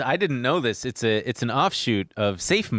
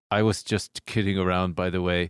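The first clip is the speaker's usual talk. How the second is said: monotone German man; 4 semitones lower than usual. Retold or imitated. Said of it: "he goes".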